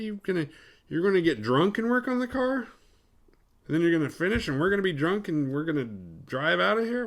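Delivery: high-pitched, baffled objection; acted-out bewildered protest; mock incredulous questioning. Acts travellers' incredulous questioning of Mick.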